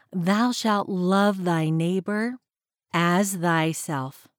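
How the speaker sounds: slow, measured reading of scripture. Acted. Podcast host reading Bible verses to listeners, slow and measured. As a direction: read the verses slowly and reverently.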